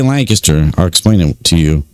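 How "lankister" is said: Lancaster squeezed into LANK-iss-ter; weak, swallowed middle in Lancaster, LANK-uh-ster; local pronunciation. Shown as a demonstration. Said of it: "I say Lancaster".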